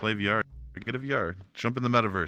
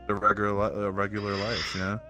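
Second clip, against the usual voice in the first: talking around a swelling in the mouth; words a bit thick from a mouth lump; 3 semitones lower than usual. Real, not acted. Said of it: "I have a big lump in my mouth".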